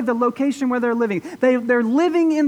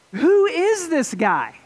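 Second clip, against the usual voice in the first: slow, higher-pitched retold question; questioning disciples; 4 semitones higher, slower than usual. Disciples asking about Jesus after the calm, imitated wondering. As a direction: lightly act out the disciples' wonder. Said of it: "What did they say?".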